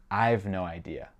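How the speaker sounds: "I've" as one syllable, like "five"; British-style contracted "I've". Shown as a demonstration. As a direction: run "I have" together into "I've". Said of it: "les Anglais disent I've".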